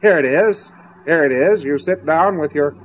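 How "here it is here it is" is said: bright, pitched-up cheerful salesman offer; glad and happy. Acted. The path offering the route, gladly and happily. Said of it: "gladly and happily".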